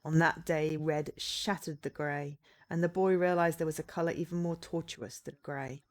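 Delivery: dramatic narration. Acted. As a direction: read it like a dark prologue. Narrates game's opening text.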